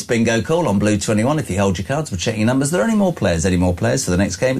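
low sing-song bingo calls; bingo caller. Shown as a demonstration. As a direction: call the numbers like a bingo hall caller. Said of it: "my first job was a rando number technician".

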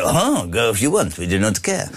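put-on a light, quick French accent; a hint of a French accent, dismissive; mock French accent. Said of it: "in a French accent".

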